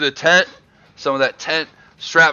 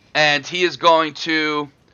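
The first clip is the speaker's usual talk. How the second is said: plain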